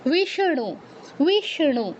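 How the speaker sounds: বিষ্ণু as wish-ṇu, with curled-back n; careful বিষ্ণু, retroflex ṇ sounded out. Shown as a demonstration. Teacher giving another example, বিষ্ণু with clear retroflex ṇ. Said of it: "এরকম".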